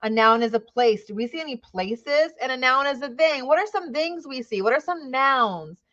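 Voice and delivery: lightly acted kindergarten teacher questioning the class; upbeat teacher voice. Shown as a demonstration. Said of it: "you might have to review".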